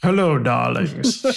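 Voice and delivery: slow sultry rock star greeting; breathy vintage purr. Pretend.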